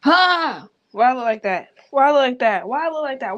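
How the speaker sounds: high, loud yelp into repeated question; startled dismay. Real, not acted. Startled by own look on camera.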